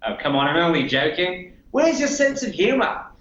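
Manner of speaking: a light Aussie voice, laid-back mate; mild Australian accent. Acted. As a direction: chat like a cheeky Australian bloke. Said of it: "my friend in Australia".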